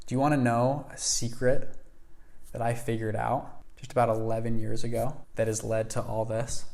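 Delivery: lightly confidential. Retold or imitated. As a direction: let the secret out gradually, a touch hushed. Mentor confides his secret.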